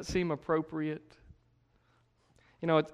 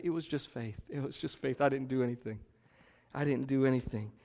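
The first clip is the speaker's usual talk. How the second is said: humble confession; 2 semitones lower, 6 dB quieter than usual. Acted. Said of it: "every one of us say".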